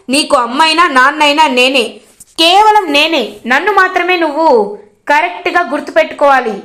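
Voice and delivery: curt, a touch of harsh scolding; lightly voiced irritation, cut him off; father curtly silences his son's questions, mildly harsh; rude. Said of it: "రూడ్గా చెప్తాడనమాట".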